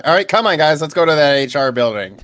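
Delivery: snapping back to normal. Acted. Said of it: "I completely straighten up".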